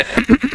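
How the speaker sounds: quiet mock throat clear. Imitating Aseem sir clearing his throat before class. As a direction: clear the throat softly like the teacher. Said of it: "उन्होंने गला थोड़ा".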